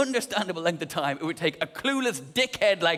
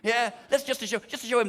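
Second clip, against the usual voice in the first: spiteful, raised pitch scheming; higher, childish defiance; petulant higher voice; 5 semitones higher than usual. Retold or imitated. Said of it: "reverse psychology where I went".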